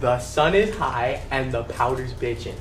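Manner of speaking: slow, carefully pronounced repeat; slow and clear. Shown as a demonstration. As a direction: spell it out slowly again. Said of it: "Do it again".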